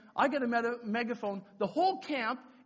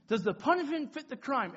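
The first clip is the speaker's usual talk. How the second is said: high, loud call-out; rallying the crowd; 6 semitones higher, 5 dB louder than usual. Retold or imitated. Leader with megaphone to camp, high rallying call. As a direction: work up a mob with the question. Calls question out to mob.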